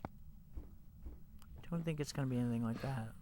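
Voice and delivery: slow hushed whisper. Real, not acted. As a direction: whisper it slowly, barely voiced. Ghost hunting, whispering to avoid notice.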